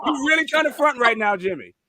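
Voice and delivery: teasing through a laugh. Real, not acted. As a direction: tease while laughing.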